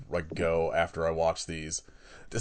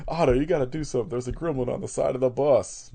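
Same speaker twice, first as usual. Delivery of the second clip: higher, urgent retold plea; mock alarm; 4 semitones higher than usual. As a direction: lightly act out a warning to the driver. Retold Bart pleading with Otto.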